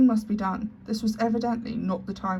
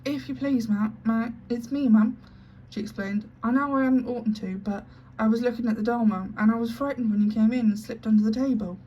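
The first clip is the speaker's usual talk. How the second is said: frightened scullery maid; 3 semitones higher, 4 dB louder than usual. Acted. Frightened maid explains, tearful.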